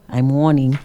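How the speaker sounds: dropped, serious warning; mean it this time; level stern warning; firmer warning. Pretend.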